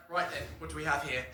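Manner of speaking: low British chef voice with a clipped Right then; Gordon Ramsay impression. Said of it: "Gordon is like".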